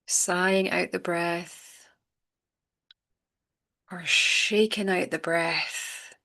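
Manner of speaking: unhurried meditation guide, long pauses between phrases; calm, spacious breathing-exercise delivery; guided meditation. Acted. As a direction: gently guide listeners into letting go, leaving space.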